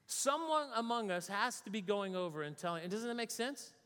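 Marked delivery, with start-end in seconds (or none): 0.0-2.8 higher-pitched, mildly exasperated mock outburst; ticked off. King venting to his officers about failed ambushes, mock ticked off. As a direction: act out a king's baffled irritation, pitched up. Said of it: "gets ticked off".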